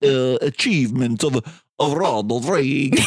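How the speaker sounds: mock guttural Russian accent drifting Italian; lightly hammed-up Russian accent, slipping into Italian; Jon Voight. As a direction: imitate a thick, halting Russian accent. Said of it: "I like that that got Italian".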